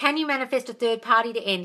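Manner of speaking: ordinary talk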